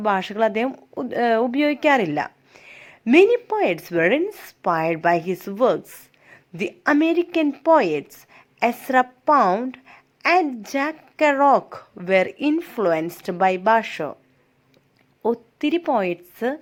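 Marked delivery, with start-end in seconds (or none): 3.2-14.1 slow, deliberate classroom reading; reading aloud. Shown as a demonstration. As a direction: read each word out slowly for the class. Teacher reads English text aloud. (പതുക്കെ വായിക്കുന്നു)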